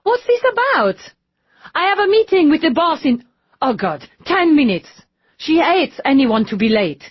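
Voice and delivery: high, loud hurried protest; agitated impatience. A narrator's reading. Lisette pressing the detectives while rushing to a meeting, agitated. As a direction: fret about the meeting.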